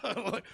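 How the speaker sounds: high, soft "ah"; a small high imitated awe sound; imitated crowd hush. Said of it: "it was like".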